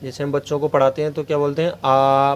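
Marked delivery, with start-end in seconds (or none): 1.7-2.3 आ with the mouth wide open. Shown as a demonstration. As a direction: say आ with the jaw dropped fully open. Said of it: "पूरा मुंह खोलो".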